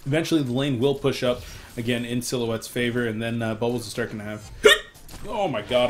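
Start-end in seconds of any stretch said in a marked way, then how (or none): 3.1-5.9 hiccup breaking the sentence; talking through hiccups. Real, not acted. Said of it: "I'm so sorry, guys".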